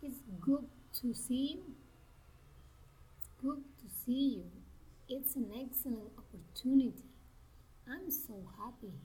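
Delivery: exclamations dropping at the end, as on "happy"; careful exclamations with "see you" coming down; falling intonation. Shown as a demonstration. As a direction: let "opportunity" and "happy" fall away. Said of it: "falling intonation".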